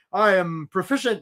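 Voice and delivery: mechanical, stiff résumé-speak voice; stiff robotic voice. Shown as a demonstration. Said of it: "I'm gonna talk like this".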